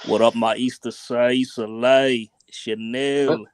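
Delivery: put-on English accent. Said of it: "I'll just say something you always say, Jed".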